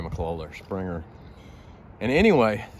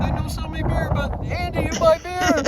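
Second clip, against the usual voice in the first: put-on sulky German kid; 4 dB louder than usual. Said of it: "He said".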